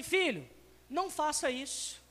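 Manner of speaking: the right way, a gentle fatherly word; gentle correction. Shown as a demonstration. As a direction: say it kindly to your son. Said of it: "você fala assim".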